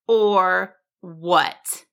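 lightly voiced taunting wizard. A narrator's reading. Wizard challenges the dragon, taunting. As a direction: throw it back as a mild dare. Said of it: "the wizard taunted".

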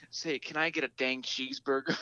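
a mild mock-American twang; American accent. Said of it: "Can you do an American accent?".

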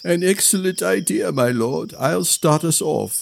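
volunteer eagerly; eager retainer. A narrator's reading.

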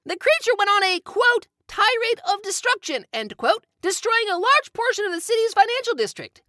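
reading a newspaper article aloud; formal news report delivery. Acted.

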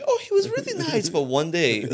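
very high, giggly mock testimony; amused mock quote. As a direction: squeal it as a joke through laughter. Joke quote about himself blacking out.

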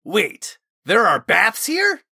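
high, loud, thrilled question; excited. A narrator's reading. Osmond learning there are baths, excited. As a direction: burst out in eager disbelief, voice leaping up. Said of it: "Osmond queried excitedly".

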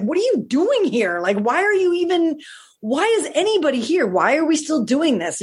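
high-pitched, pleading disbelief, retold; mock incredulous. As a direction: swoop up on each appalled question. Imagined appalled questions to the mother.

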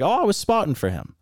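high-pitched mock of his answer; mimicked spotter. Racer imitating the big spotter's answer, mocking voice. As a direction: mimic him lightly, voice up.

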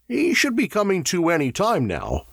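high-pitched, projected announcement. A narrator's reading. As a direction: pitch it up for the patient to overhear. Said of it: "he said loudly".

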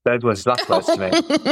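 confirming through a laugh. Real, not acted. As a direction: answer while still laughing.

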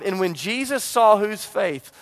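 slow drawn-out call, waiting for the answer; call to the church. Shown as a demonstration. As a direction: pull the congregation into the line. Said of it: "my church talks back to me".

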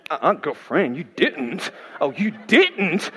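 sassy imitation of African-American English; African-American sass. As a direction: put on an African-American accent with attitude, drawing out "didn't". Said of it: "getting her, you know, Afro-American on".

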